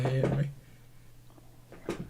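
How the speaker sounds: slow hushed whisper. Pretend. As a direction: whisper it as a joke. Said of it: "You are whispering".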